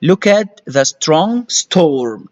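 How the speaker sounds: "Look at the strong storm" read very slowly; slow model reading. Shown as a demonstration. Teacher reading the sentence slowly aloud. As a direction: drag each word out for the learner. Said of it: "slow reading".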